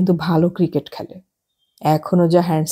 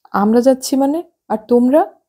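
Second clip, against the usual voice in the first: higher, startled question; surprised wife; 6 semitones higher than usual. Acted. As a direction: she can't believe she's going alone. Esha surprised at husband's plan.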